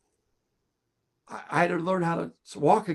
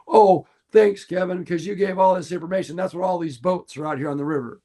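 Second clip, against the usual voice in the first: sarcastic complaint; 3 semitones higher than usual. Retold or imitated. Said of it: "I have someone say".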